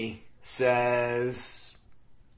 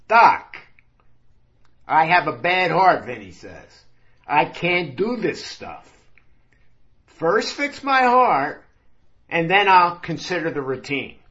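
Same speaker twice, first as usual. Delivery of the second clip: loud pleading; 3 dB louder than usual. Acted. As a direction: beg him loudly to fix your heart first. Vinny pleads about his heart.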